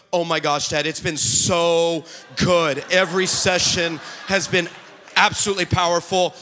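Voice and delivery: low, measured imitation of a poised guest; composed on-air child. Daughter answering dad on live TV, imitated composure.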